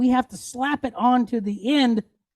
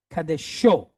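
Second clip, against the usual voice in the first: "kadesho" with oomph on the final "sho"; stress on last syllable; 5 semitones lower than usual. Shown as a demonstration. Teacher showing where Hebrew stress falls, final-syllable stress on "kadesho". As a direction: punch the end of "kadesho". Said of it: "Give it a little oomph".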